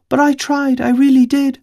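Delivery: put-on high girl's voice pressing hard on "tried" and "really did"; emphatic. Little girl insisting to Five, stress on "really did". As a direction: lean into "really did" like a child proving herself. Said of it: "She put particular emphasis on her last words".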